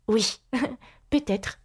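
slow, hesitant agreement; cautious. A narrator's reading. Alice answering the Red Queen, slow and careful. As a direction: agree slowly and tentatively. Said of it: "dit Alice prudemment".

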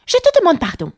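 high, offended mouse voice; polite but frowning mouse. A narrator's reading. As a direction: squeak it with icy politeness. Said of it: "dit la souris très poliment, mais en fronçant le sourcil".

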